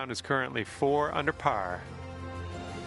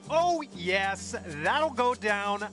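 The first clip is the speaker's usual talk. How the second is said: excited, higher, slow commentator call; golf commentator; 7 semitones higher, slower than usual. Acted. Putt drops, commentator call.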